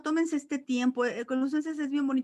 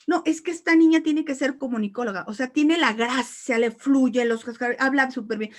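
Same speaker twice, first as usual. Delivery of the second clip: put-on louder eager praise of the girl; proud parent; 8 dB louder than usual. Parents praising daughter's gift.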